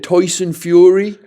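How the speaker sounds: slightly Irish-sounding vowels, drawn out. Real, not acted. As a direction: say the name with an Irish tinge. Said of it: "you didn't realise he's Irish".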